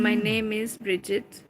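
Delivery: "and my name is Brigitte" said slowly and plainly in English; slow translation. Shown as a demonstration. Explaining the French phrase to her chat partner, slow and plain. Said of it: "the only phrase I knew in French".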